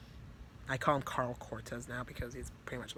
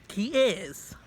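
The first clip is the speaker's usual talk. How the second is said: sudden high whisper; whispered aside; 7 semitones higher, 7 dB louder than usual. Real, not acted. Confirming to viewers that he is evil, whispered. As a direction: breathe it like a spooky secret.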